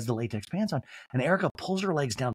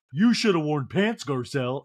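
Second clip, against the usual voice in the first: failed Crystal impression. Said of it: "Crystal returns to the seat and points".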